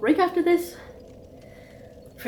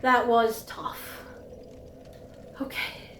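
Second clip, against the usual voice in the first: adrenaline shakes; 8 dB quieter than usual. Real, not acted. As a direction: catch your breath, still shaky. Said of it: "Now I need a moment".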